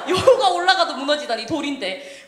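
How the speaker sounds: high, loud, amused outrage; mock indignation. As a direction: protest in laughing disbelief at being insulted. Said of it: "저는 여우에서 화가 났어요".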